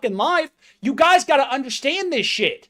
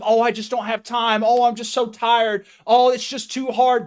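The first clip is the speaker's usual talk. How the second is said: mocking excuses; 2 semitones lower than usual. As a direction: drag it out like a lazy complainer. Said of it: "the excuse of".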